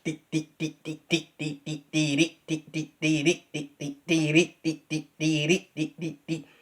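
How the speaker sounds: crisp tongued "dee" syllables; tongue each "dee" separately; soft, articulated "dee" tonguing. Shown as a demonstration. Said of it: "You see how I'm articulating?".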